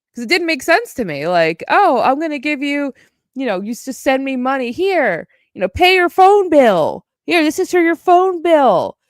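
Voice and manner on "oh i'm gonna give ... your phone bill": mock sweet Allie offering money.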